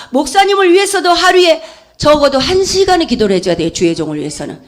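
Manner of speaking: loud, high, impassioned sermon delivery; fervent preaching. Acted. Preacher urging the congregation to plead the blood, fervent. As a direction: cry it out over the congregation.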